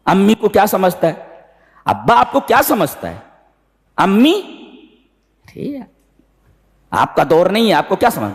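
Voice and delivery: high, sing-song mock of a rude son; mocking disrespectful youth. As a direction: sneer it out like a cheeky young man. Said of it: "आज भी कहते हैं". (बदतमीज़ बेटे की नकल, ऊँची आवाज़ में)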